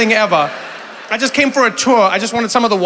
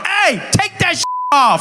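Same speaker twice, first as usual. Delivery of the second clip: high, loud gleeful command; mock bossy yell; 10 semitones higher, 3 dB louder, slower than usual. Trevor ordering bathers at the spring, high mock yell. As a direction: holler it as if drunk on new authority.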